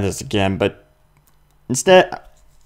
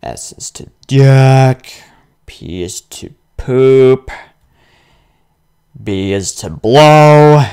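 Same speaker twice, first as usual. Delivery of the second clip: slow, louder deadpan listing of silly keys; mock serious reading; 2 semitones higher, 5 dB louder, slower than usual. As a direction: read the joke controls slowly and loudly, deadpan. Reading joke controls, slow and loud.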